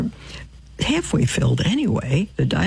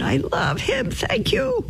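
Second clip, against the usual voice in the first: whispered reply; slower than usual. Retold or imitated. Her quiet reply each time.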